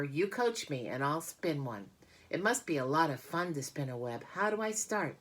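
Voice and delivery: lightly voiced, eager piglet; eager young pig. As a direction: ask keenly like a keen pupil. Wilbur eager to spin.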